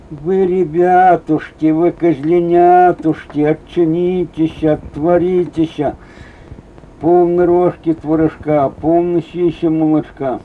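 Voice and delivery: a hint of the mother goat's singsong from the wolf; lightly sweeten it like the mother goat; wolf's new goat voice. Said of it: "Волк пришёл с новым голосом". (волк новым козьим голосом, слегка нараспев)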